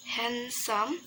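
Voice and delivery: "handsome" split into two lengthened syllables; syllables drawn out. Shown as a demonstration. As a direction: say "handsome" slowly for learners. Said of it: "the syllable is".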